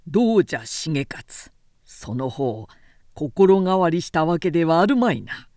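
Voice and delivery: lightly voiced lord, probing and stern; pressing interrogation. Munemori questions Shigeyoshi about loyalty, mild stern pressure. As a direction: push him to admit fear, mildly acted.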